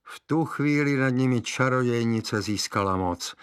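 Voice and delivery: ordinary delivery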